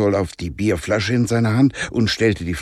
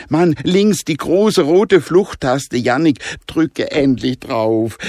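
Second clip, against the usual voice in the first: higher and slow, exasperated; impatient boy; 7 semitones higher, 4 dB louder, slower than usual. Acted. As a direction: spell it out, losing patience. Jonah ungeduldig. (Jonah ungeduldig und genervt)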